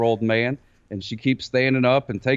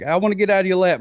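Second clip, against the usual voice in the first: higher, lightly put-on baby voice; voicing his baby daughter; 6 semitones higher, 4 dB louder, faster than usual. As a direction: play a wriggly baby making demands. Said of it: "and then she's like".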